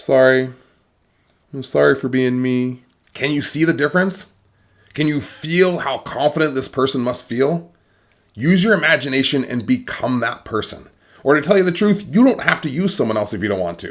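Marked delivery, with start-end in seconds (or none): 0.0-2.8 mumbling, fully apologetic delivery. Showing how an unconfident person speaks: mumbling apologetically. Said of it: "Or do they sort of mumble and just, like, apologize".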